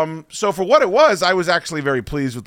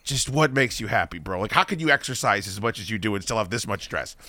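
much softer and lower, a tired groan of a reply; weary exasperation; 7 semitones lower, 7 dB quieter than usual. Retold or imitated. Answering H-Mac's taunts in the chat, soft and weary. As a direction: sigh it out, worn down. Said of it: "I'm just".

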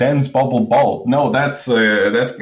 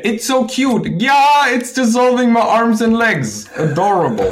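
sarcastic; 11 semitones higher than usual. Pretend. Sarcasm about deadly ladybug.

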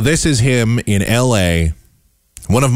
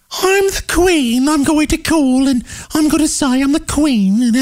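high, slow, put-on silly posh voice; sneering high mimicry of the prank; mocking prank caller. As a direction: parody the DJ pretending to be the queen. Mocking the DJs' queen prank.

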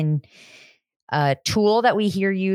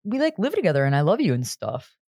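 Dawson. Retold or imitated. Co-host mimicking a boyfriend clinging to his girlfriend, mock pleading. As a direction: lightly imitate a clingy boyfriend. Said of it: "he's all like".

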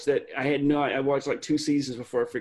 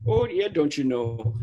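Fargo accent; slower than usual. Shown as a demonstration. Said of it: "I get too Fargo there".

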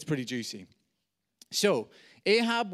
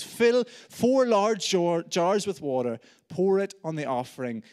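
commanding order; 4 semitones higher, 7 dB louder than usual. Acted. Elijah orders the water poured.

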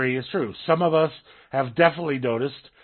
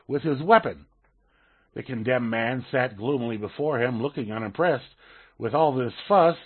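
steady story reading voice; reading aloud. Acted. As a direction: read the anecdote out like a column. Reads Hitchens column aloud.

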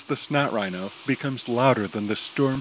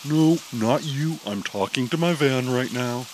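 yelling. Acted. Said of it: "Chaser yells".

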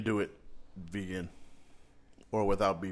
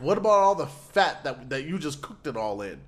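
sarcastic; 3 semitones higher, 6 dB louder than usual. Retold or imitated. Sarcastic retort to restaurant.

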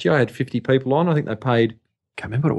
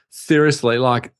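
lightly voiced camp shop attendant, higher than usual; gay shop attendant; 4 semitones higher than usual. Shop attendant telling a customer about the A-listers, lightly imitated gay accent. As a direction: imitate a gay shop assistant, lifting the pitch. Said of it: "so I could do the gay accent".

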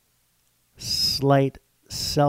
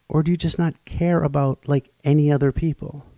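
louder, exasperated ranting; incensed rant; 2 semitones higher, 4 dB louder than usual. Real, not acted. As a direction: vent hot and indignant. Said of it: "Sorry. I can't really get out of the rant".

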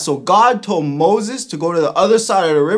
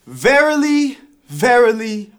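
high, loud King James voice; mock biblical prophet; 3 semitones higher, 5 dB louder than usual. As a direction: overwrought archaic prayer. Skit: second archaic prayer attempt.

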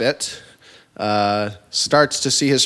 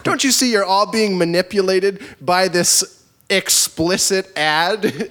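woke preachy voice; 6 semitones higher, slower than usual. Retold or imitated. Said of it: "in the most woke fashion".

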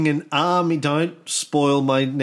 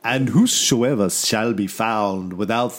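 spooky horror-song narrator; 6 semitones lower than usual. Retold or imitated. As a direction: growl it out like a horror trailer. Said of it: "that was the song".

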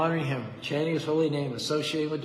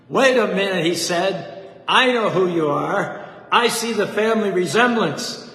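loud, higher ringing announcement; preacher declaring the boy's worth, ringing loud; joyful proclamation; 4 semitones higher, 9 dB louder than usual. Retold or imitated. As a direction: proclaim it to the whole church.

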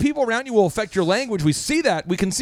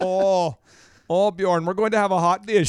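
put-on Minnesotan accent. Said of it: "if you go up to Minnesota".

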